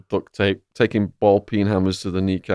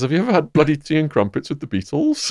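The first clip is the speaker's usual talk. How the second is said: lightly imitated fake British accent, pitched up; 5 semitones higher than usual. Mobster teasing nervous English inmate, in a fake British accent. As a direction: put on a mock British accent, rising at the end. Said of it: "in a fake British accent".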